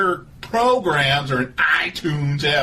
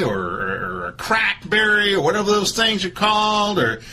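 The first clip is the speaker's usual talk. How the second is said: Doctor Phil voice; 6 semitones higher than usual. Acted. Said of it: "This is Doctor Phil".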